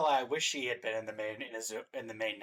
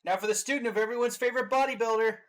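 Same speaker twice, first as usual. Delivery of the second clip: announcer-style intro; 9 semitones higher, 4 dB louder than usual. Pretend. Hammed-up introduction of next character.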